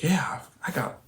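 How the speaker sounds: put-on small hushed whisper of a boy; soft whispered yeah; whispered reply. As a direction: breathe it out like a shy kid. Son answering dad in car.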